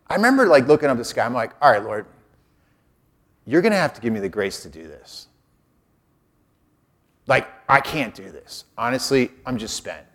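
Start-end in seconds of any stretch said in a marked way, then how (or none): 1.6-10.1 low, weary plea to the Lord; spent prayer. Retold or imitated. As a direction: softly admit you are spent, voice sinking. Worn out, praying to God.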